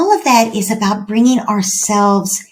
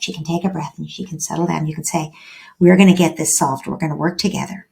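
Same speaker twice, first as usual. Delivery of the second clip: calm soothing; 2 semitones lower, 3 dB quieter, faster than usual. Retold or imitated. Calming voice for upset teen.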